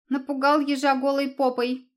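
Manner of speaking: high, loud cheeky squeal; squeaky fox cub. Acted. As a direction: taunt like a bratty little animal. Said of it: "пискнул лисёнок". (писк дерзкого лисёнка)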